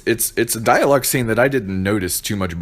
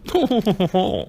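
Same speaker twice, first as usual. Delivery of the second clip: high burst of laughter; 12 semitones higher than usual. Real, not acted. Laughing at his own impression.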